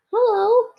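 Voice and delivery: a toy bear calling to a big dog; friendly bear greeting. Acted.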